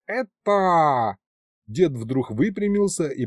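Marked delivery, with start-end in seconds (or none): 0.1-1.2 shocked exclaim. A narrator's reading.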